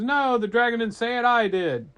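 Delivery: loud, put-on insistence; emphatic correcting. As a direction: call it down to a crowd. Rider corrects villagers from above.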